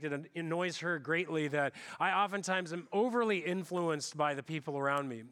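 usual speaking voice

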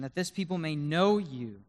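earnest plea swelling on "know you"; impassioned plea to God; passionate prayer. Acted. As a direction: pray it with passion, leaning on "know". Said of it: "Elijah's praying with passion".

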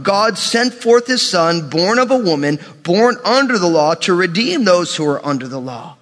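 slow, weighty Bible reading; measured sermon scripture voice. Acted. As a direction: read each phrase like holy writ. Reads scripture aloud.

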